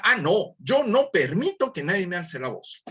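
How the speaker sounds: a touch of wounded pride, half-acted; offended indignation. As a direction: play someone who won't let anyone raise their voice. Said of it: "Y otro dirá".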